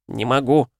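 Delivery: a little spirit squeals its refusal; squeaking. A narrator's reading. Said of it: "пищал Кидзимуна".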